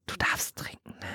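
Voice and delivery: whispered aside; whispering. Real, not acted.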